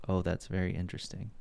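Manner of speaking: monotone, low-key interest that sounds sarcastic; unintentionally sarcastic. Retold or imitated. Monotone talker replying to people, genuine but sounding sarcastic. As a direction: genuine words in an unconvinced monotone. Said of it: "think I'm being sarcastic".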